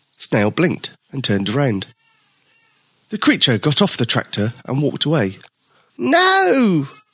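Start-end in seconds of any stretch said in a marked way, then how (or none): 6.0-6.9 very high, loud, drawn-out, all-out wailing cry. Snail calls after the creature as it walks away, crying out as loud as possible. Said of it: "Snail cried as loudly as he could".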